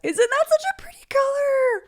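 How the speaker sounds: high, breathy whispered gush. Real, not acted. Vlogger showing viewers the new polish colour, high whisper.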